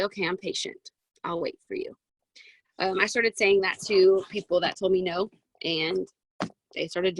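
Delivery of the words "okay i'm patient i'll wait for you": softer, lower, unhurried; gentle and patient, no pushing; soft patient reply. Shown as a demonstration. Modelling a patient reply to a hesitant prospect, soft.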